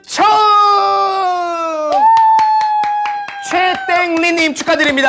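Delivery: high, loud, drawn-out winner shout; booming prize announcer. Acted. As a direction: belt the congratulations like a show host. Announcing giveaway winner live.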